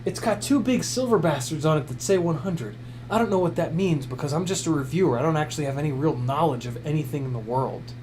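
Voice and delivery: lightly voiced clueless gadget reviewer, mostly his own voice; a hint of a know-nothing reviewer, deadpan; parody YouTube reviewer. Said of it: "I'm impersonating YouTube reviewers".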